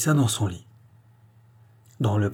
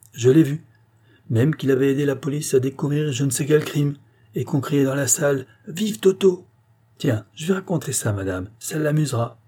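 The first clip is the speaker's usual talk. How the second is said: flattered maid; 5 semitones higher than usual. Acted. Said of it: "fit une voix flattée".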